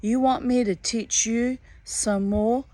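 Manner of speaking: a lightly voiced, mocking swamp conjurer; taunting hairy man. Hairy man taunting Wiley up in the tree, mildly mocking. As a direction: tease him like a cat with a mouse.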